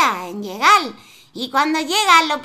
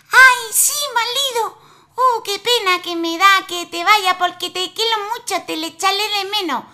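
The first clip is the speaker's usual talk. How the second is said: wife's voice; 6 semitones higher, faster than usual. Acted. Wife voiced in folk tale.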